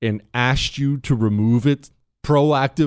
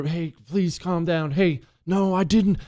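put-on hushed, higher, placating boyfriend; desperate calm; 4 semitones higher than usual. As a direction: plead with her to calm down, keeping it contained. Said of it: "you hear how calm his voice is".

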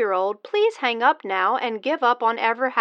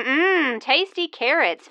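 airplane spoon game; slower than usual. Acted. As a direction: coo like feeding a toddler. Mock feeding a baby.

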